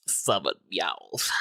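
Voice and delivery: slow, grave little line; a hammed-up grave decree; mock solemn. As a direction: dole it out like a stingy king.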